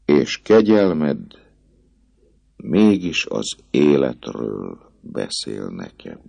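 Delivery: slow, cold accusation; girl rebukes the priest, icy and slow; icy reproach. Acted. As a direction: freeze him with every word. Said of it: "ugyanazon a fagyos hangon".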